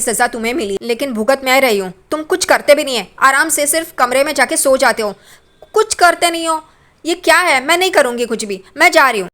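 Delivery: a mild mock rant at someone who never helps; angry outburst. Roshni scolding the man who sleeps while she works: retold anger. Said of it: "रोशनी गुस्सा होती है".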